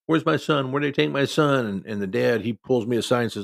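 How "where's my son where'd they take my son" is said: higher, imitating the frantic mother's cry; mild retold yell. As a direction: echo her panicked yelling, but held back. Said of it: "I could just hear yelling".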